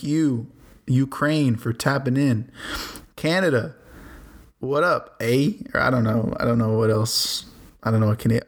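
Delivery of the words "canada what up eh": a light, hammed-up Canadian accent on the greeting; awful Canadian accent. Podcaster greeting his Canadian listeners, mock Canadian accent. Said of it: "That was an awful Canadian accent".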